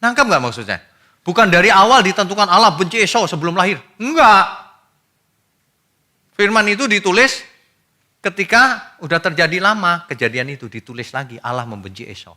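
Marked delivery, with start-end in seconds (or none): 1.2-10.1 high, loud emphatic preaching; forceful pulpit voice; fiery preaching. Acted. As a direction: hammer the correction home to the congregation. Preacher rebuts a misreading.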